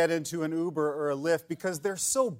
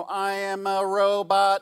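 slow flat robot voice; 3 semitones higher, 4 dB louder, slower than usual. Retold or imitated. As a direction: speak like a robot, slowly. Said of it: "we'd come out as like".

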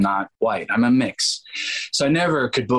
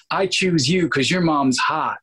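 slightly slow, raised-pitch TV parody; mock MTV line; 6 semitones higher, slower than usual. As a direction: lightly send up a cheesy dating-show line. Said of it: "none of that stuff on M T V".

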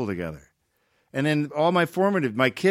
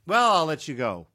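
lightly imitated mom ending a call; a hint of mom's sign-off; mom's phone sign-off; 3 semitones higher than usual. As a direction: politely wrap up the phone call. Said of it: "that's how she ends it".

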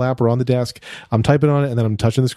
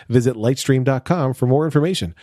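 upbeat sponsor read for listeners. Acted. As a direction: read it like a podcast host ad. Host reads sponsor ad.

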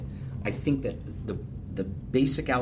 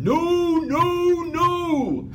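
high, loud screamed no no no; Ballmer screaming; 8 dB louder, much slower than usual. Retold or imitated. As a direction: scream it like a furious boss. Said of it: "he started screaming".

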